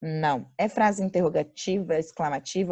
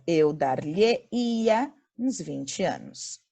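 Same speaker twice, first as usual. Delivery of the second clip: slow recap reading; 2 semitones lower, much slower than usual. Shown as a demonstration. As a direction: restate the answer calmly. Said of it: "a frase fica".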